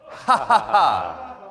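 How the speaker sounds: loud booming fake belly laugh, slow; big fake laugh. Shown as a demonstration. Coach to standing class, loud slow fake belly laugh. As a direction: push out a hearty fake ha ha ha. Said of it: "let out a big fake ha ha ha".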